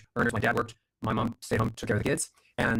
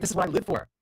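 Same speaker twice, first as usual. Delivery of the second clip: elated; 7 semitones higher than usual. Retold or imitated. Retelling his elation at success.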